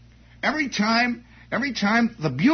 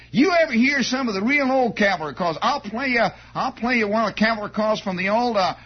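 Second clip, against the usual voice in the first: boastful bugler; 3 semitones higher than usual. Retold or imitated. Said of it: "He would say".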